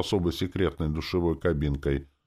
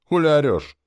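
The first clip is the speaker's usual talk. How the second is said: much higher and louder, a yelled comeback; shouted retort; 12 semitones higher, 10 dB louder than usual. A narrator's reading. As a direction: bark it back through the speaker. Witch snaps back over intercom.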